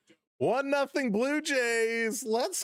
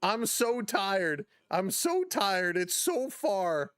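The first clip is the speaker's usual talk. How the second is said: mock exhausted; slower than usual. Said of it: "he's huffing and puffing, and he says".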